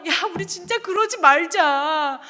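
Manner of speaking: imitating a weeping, urgent appeal; retold tearful plea. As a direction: plead with a friend as if crying together. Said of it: "둘이 앉아서 엉엉 울면서".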